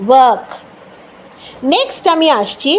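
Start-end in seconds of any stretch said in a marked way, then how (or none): 0.1-0.5 ওয়ার্ক said "wək", r dropped; ওয়ার্ক with the r silent. Shown as a demonstration. Teacher reminding viewers ওয়ার্ক has no r sound. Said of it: "র এর কোনো জায়গা নেই".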